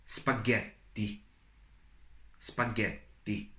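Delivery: "spaghetti" slowly, with a held T; "spaghetti" as spa-GHET-ti, crisp Italian T; marked T sound. Shown as a demonstration. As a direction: dictate "spaghetti" slowly, pausing on the T. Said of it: "notice that T sound".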